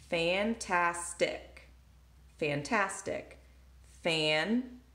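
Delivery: fantastic slowly split fan-tas-tic; syllables tapped out. Shown as a demonstration. Teacher to students, fantastic tapped slowly. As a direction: tap out fantastic in three beats. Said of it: "Three syllables".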